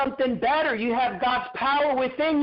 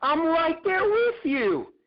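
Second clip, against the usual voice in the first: lightly raised, slow reassuring divine voice; a hint of God speaking comfort; voicing God; 5 semitones higher than usual. God promising he is there, gently reassuring. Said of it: "But he said".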